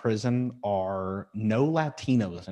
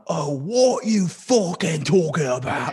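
loud, slow, exaggerated British accent; the other British accent; 7 semitones higher, 6 dB louder than usual. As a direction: stretch it out in high, hammy British.

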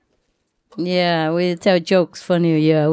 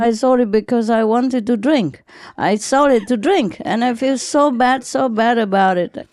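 lightly voiced drunk man; 5 semitones higher than usual. Drunk man confessing, retold.

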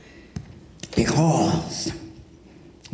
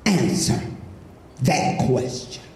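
pompous academic, pitched down and careful; stuffy professor; 11 semitones higher than usual. Acted. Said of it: "He said".

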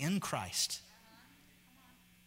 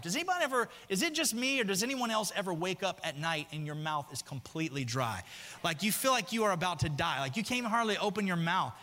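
animated riff; 5 semitones higher than usual. Acted. Comic relatable riff, higher.

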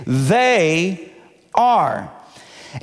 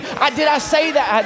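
higher-pitched feigned surprise; mock innocence; 5 semitones higher than usual. Preacher joking about California to the congregation, mock-innocent higher pitch. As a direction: playfully act as if it slipped out. Mock denial of his joke.

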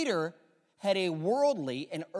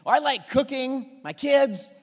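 rattled-off answer; 7 semitones higher, 10 dB louder, slower than usual. Retold or imitated. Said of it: "I'm gonna think you're crazy".

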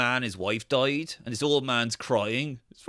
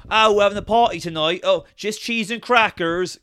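higher, slowed prim party voice; lightly mocking a prissy host; sending up the show's characters; posh partygoers; 5 semitones higher, 4 dB louder than usual. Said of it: "it's them being like".

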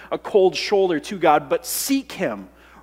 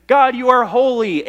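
mock pious praise; 6 semitones higher, 6 dB louder than usual. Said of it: "not by saying".

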